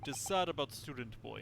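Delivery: gruff Russian guard; smug Russian seaman; Russian accent. Acted. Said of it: "sorry to literally anybody who actually has a Russian accent".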